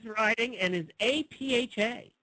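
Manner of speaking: deliberate, swooping read for close listening; emphatic ad reading. Shown as a demonstration. Host repeats the sentence for listeners, emphatic reading. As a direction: read it with exaggerated lilt. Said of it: "let me repeat that sentence and listen closely".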